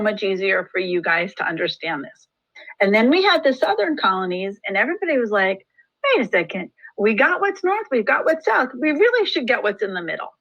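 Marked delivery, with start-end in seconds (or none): 6.0-10.3 higher-pitched mock group voice; acted eager realization. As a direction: pipe up as colonists spotting an opportunity. Voicing colonists' sudden realization.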